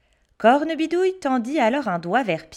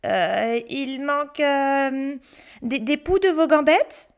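put-on high child voice, hesitating; fake-think it out, hesitant; pretend pondering; 3 semitones higher than usual. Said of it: "en faisant mine de réfléchir".

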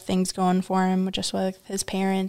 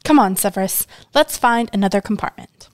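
indignant; 7 dB louder than usual. Acted. Girl leaving in annoyance.

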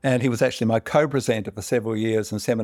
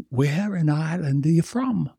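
tipsy Irishman; 5 semitones higher than usual. Acted. Drunk Irishman in bar joke.

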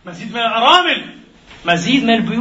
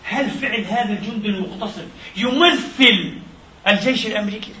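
mocking quote. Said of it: "ويكتب زنادقة العرب".

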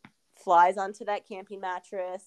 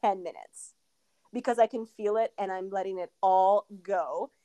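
mock wild defiance. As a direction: replay the moment she stopped holding back, pitched up. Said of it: "I was like".

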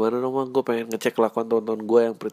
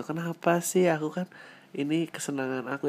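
higher whiny spoiled wife voice; 5 semitones higher, 5 dB quieter than usual. Acted. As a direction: play a pouty shopaholic wife. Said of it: "istri-istri yang gitu".

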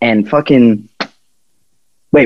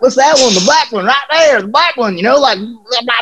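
high, cartoonish imitation of a clueless fan; mock dim buyer; 11 semitones higher than usual. Clueless fan picking out a shirt at a rally, high and dopey. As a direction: point at the shirt like a dopey kid. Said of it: "And he was like".

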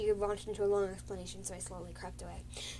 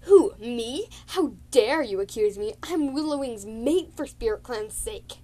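louder offended protest; indignant outburst; 2 semitones higher, 7 dB louder than usual. Retold or imitated. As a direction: act insulted at the accusation. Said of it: "Fire Branch".

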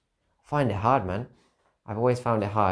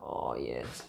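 soft reply; 9 semitones lower, 11 dB quieter than usual. Retold or imitated. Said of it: "I was like".

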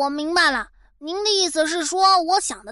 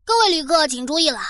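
airport announcement; 2 semitones lower, faster than usual. Pretend. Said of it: "都到了外星球了".

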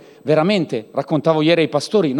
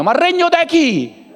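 incredulous mocking; 7 semitones higher, 4 dB louder than usual. Real, not acted. Preacher mocking a believer's claim.

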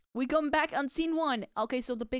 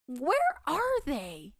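dramatic slow line; 3 semitones higher, much slower than usual. Acted. Acting out a scene from the show.

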